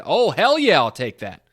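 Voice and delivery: loud, eager outburst; nerdy excitement. Acted. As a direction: blurt it out like an excited fan. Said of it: "I sounded like a real nerd there saying".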